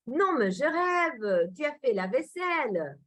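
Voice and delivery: a little sarcastic, stretching the words; sarcastic disbelief. Shown as a demonstration. Teacher acts out disbelief that someone did the dishes, lightly sarcastic. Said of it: "C'est un peu sarcastique".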